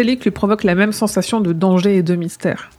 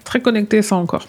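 mocking; 2 semitones higher than usual. Mocking friend's reasoning.

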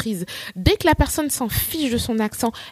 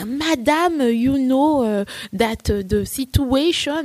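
a hint of a hesitant pupil answering in English; mock classroom English with drawn-out hesitations; lightly voiced pupil; 3 semitones higher, slower than usual. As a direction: imitate a pupil bravely attempting English, halting between words. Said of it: "un élève qui prenait son courage".

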